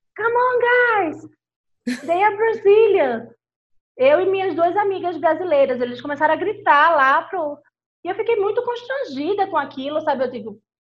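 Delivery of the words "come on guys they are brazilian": very slow, drawn-out shout. Retelling how a young man in a pub shouted to his friends: imitating someone shouting. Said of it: "ele começou a gritar no pub pros amigos".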